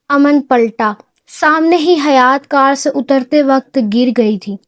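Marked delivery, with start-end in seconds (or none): none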